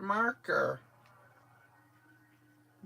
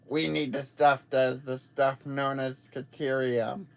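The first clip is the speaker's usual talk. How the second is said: crying impression; 6 semitones lower than usual. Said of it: "How do you like my crying impression".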